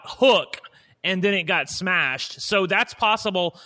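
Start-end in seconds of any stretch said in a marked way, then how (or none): 0.0-0.6 shouted name, retold; yelling a name. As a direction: call out the name loudly. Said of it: "she yelled out".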